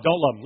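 "don't" stressed, pitched below the yes; dropped denial. Acted. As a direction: fall back down on "don't love him". Peter's wavering acted as alternation.

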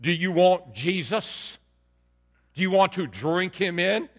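drawled North Carolina altar-call questions; North Carolina accent. Acted. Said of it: "he'd say it in that North Carolina accent".

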